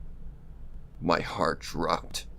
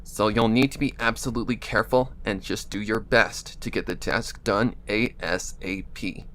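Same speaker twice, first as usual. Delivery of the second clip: Absentia voice. Acted. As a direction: speak a little through the nose. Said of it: "the Absentia voice".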